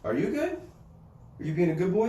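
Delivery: high, sing-song questions to the dog; dog-talk voice. Real, not acted. Talking to the dog.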